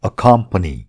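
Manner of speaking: "Accompany" as uh-KUM-puh-nee, stress on the second syllable; "Accompany" with a short unstressed first vowel; model pronunciation. Shown as a demonstration. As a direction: model "Accompany" for learners to repeat, punching KUM. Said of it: "यो शब्दको उच्चारण मसँग गर्नुहोस्".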